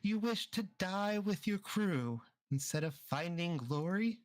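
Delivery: a hint of a knowing old crone; old fortune teller. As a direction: fortune teller questioning the captain, lightly voiced old lady. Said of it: "You hear from the old lady".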